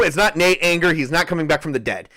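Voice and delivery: words breaking into a laugh. Real, not acted. GM jokes that the dead character is not returning, laughing. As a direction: laugh through the joke.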